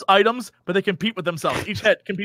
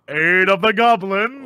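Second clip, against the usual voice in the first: slow, grave title read; dramatic reading; slower than usual. Retold or imitated. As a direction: imitate the epic reading. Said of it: "reading it like that was so funny to me".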